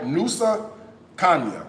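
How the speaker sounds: "Nusa Kanya" with an Americanized pronunciation; "Nusa Kanya" as an outsider would say it; mispronounced name. Shown as a demonstration. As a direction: say "Nusa Kanya" tentatively with English-style vowels. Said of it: "I'm saying it wrong".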